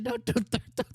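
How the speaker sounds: retelling Usato begging Rose not to throw him, mock panic; mock panicked pleading. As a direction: plead like you're about to be tossed into the forest. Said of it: "He's like".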